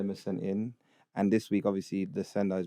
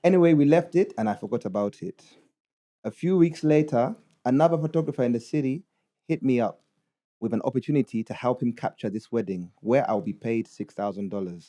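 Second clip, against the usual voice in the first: put-on Ugandan accent; 3 dB louder than usual. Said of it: "read it in a Ugandan accent".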